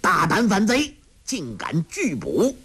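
high, sharp curse at the rebel; angry scolding. A narrator's reading. Officer cursing Yang Tiexin for resisting, angry. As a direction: spit out the accusation. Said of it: "骂道".

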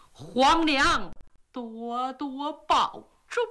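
slow, grieving farewell with a whispered break; a son bidding his mother goodbye forever, holding back tears; a prince kneeling toward the palace, slowly saying a tearful goodbye to his mother. Acted.

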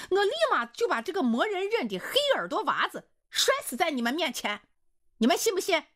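high, loud, screaming threat; furious shout. A narrator's reading. Hu Caixiang screams at the brawling men, furious high shout. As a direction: yell at both men to stop fighting. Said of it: "胡老师大喊一声".

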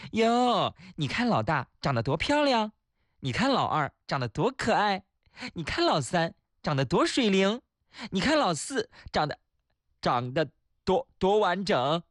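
阿姨夸孩子. Acted. 阿姨进门夸孩子.

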